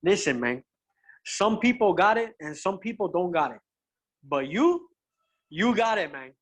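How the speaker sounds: put-on measured, pointed delivery in a Cuban accent; imitated Cuban-accented English; thick Cuban accent. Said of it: "in a thick Cuban accent".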